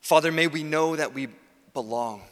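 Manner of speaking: earnest spoken prayer. Real, not acted. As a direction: lead the congregation in prayer, pausing between petitions.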